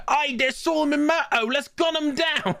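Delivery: hammed-up thug rallying his mates; street thug. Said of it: "some thugs just go".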